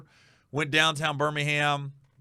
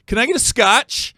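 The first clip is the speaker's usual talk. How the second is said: put-on drunk demand; 7 semitones higher, 7 dB louder than usual. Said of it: "He goes".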